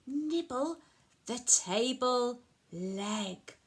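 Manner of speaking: measured picture-book narration; reading to children. A narrator's reading. Telling a child what the goat did, storybook narration. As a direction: set out each phrase with little pauses.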